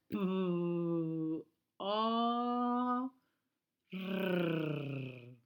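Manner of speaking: cada letra sonada por separado; letter sounds. Shown as a demonstration. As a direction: hace sonar P, O, R una a una. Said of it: "haciendo el sonido de la letra". (la mestra fa sonar les lletres per als xiquets)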